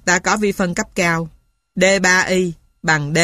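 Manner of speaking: ordinary delivery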